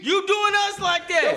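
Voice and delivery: squeaky high mock whine. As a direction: pitch way up and whine it slowly. Friends mocking in a heated argument.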